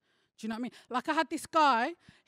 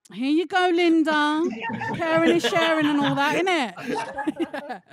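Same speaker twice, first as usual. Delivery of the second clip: loud cheeky offer; 4 semitones higher, 8 dB louder than usual. Retold or imitated. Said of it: "And I'm like".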